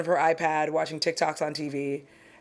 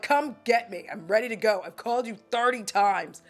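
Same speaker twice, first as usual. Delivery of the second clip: higher, pushy retold snapping; yelling at mom; 4 semitones higher than usual. Daughter on the phone with her late mom, mildly yelling. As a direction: replay the impatient demand, half-hearted yell. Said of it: "I yelled at her".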